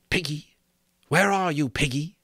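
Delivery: taunting voice hunting in the dark; eerie call. A narrator's reading. Voice calling from outside.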